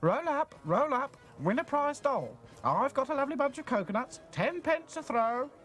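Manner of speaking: loud, high barker's patter; fairground barker call. A narrator's reading. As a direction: drum up the crowd at the stall. Fairground barker calling crowd.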